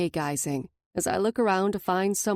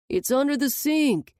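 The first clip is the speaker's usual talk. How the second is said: shouting; 7 semitones higher, 3 dB louder than usual. A narrator's reading. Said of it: "he shouts from the couch".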